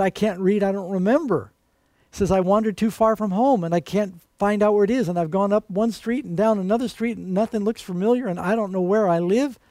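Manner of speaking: mildly voiced lost child; lightly voiced lost boy. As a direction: sketch a lost little boy. Lost crying boy voiced in story.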